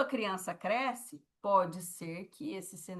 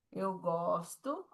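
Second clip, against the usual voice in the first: 1 slow demo; much slower than usual. Shown as a demonstration. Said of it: "sinal de gostar".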